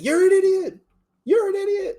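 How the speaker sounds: high squeaky cartoon voice; Grinch voice. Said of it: "that shit from The Grinch".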